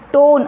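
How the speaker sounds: टोन stretched out in another tune; varied tone demo. Shown as a demonstration. Teacher varying tone for students, टोन drawn out. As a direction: draw out the vowel of टोन. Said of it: "अलग-अलग तरह से बोल रही हूँ".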